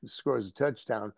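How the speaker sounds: ordinary talk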